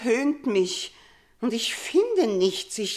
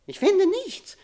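much higher, rising anguished cry; 10 semitones higher, 3 dB louder than usual. Acted. Queen to her daughter, crying out in anguish. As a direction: fling the line up in anguish.

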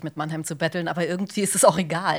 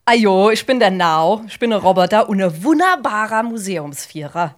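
Mannheimer Dialekt. Acted. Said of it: "die Monomer-Version dieses Roboters".

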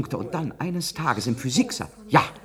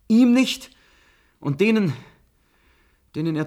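pleading; 4 semitones higher, 8 dB louder than usual. Acted. Eindringliches Flehen im Streit.

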